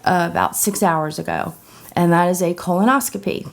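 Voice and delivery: sore throat, scratchy and rough; talking through a sore, scratchy throat. Real, not acted. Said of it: "sorry if my voice is a little scratchy".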